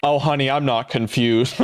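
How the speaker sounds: low, gross creep voice, laid on. Answering whether people are confused, in an impression of the grossest man in the world. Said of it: "That's my impression of the grossest man in the world".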